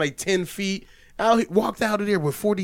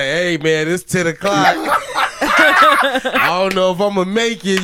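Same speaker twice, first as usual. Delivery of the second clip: imitating the friend; 3 semitones higher, 4 dB louder, much slower than usual. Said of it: "he was like".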